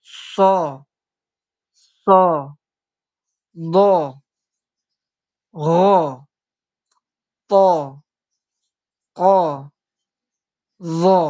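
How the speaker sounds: each letter said loud, heavy and thick, one by one. Shown as a demonstration. Teacher reads the seven letters to students, thick and loud. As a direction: drill the heavy letters slowly for the class. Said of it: "Tadi saya baca tebal semua".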